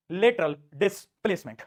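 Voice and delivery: लेटरल डिस्प्लेसमेंट said slowly and deliberately; slow emphasis. Shown as a demonstration. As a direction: stretch out लेटरल डिस्प्लेसमेंट for the class. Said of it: "इसको हम बोलते हैं लेटरल डिस्प्लेसमेंट".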